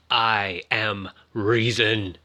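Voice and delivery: slow, measured machine voice; lightly voiced computer, each word weighed; slow robot voice. Recapper quoting the AI computer, slow and measured. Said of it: "this is where Proteus says".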